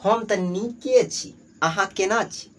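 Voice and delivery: slow, drawn-out Maithili greeting; Maithili speaker. Acted. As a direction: answer unhurriedly in Maithili. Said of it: "Maithili में हम लोग को चलता है".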